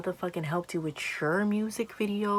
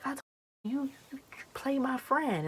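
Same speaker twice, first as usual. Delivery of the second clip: higher-pitched mimicry of a friend; imitated indignant friend; 9 semitones higher, 4 dB quieter than usual. Friend reporting how she told him off, imitated high and indignant. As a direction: retell the confrontation in a friend's high voice.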